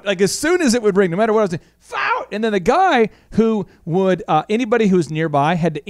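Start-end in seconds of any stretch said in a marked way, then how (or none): 1.8-2.2 high-pitched drawn-out holler; retold yell. Boss hollering for someone to answer the ringing phone, high yell. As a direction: call it out high, more pitch than volume. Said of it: "I would yell".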